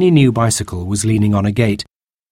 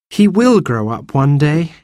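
dreamily; 6 semitones higher than usual. Acted. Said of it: "said Anthea dreamily".

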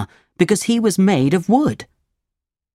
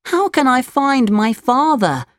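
put-on higher puppet boy voice; worried young puppet asking, pitched up; Pinocchio, pleading; 9 semitones higher than usual. A narrator's reading. Pinocchio asks about his lost father, high pleading voice.

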